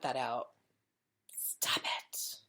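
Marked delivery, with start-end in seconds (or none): 1.3-2.4 breathy unvoiced whisper; hushed aside. Real, not acted.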